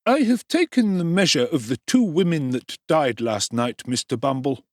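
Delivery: undertaker's voice. A narrator's reading.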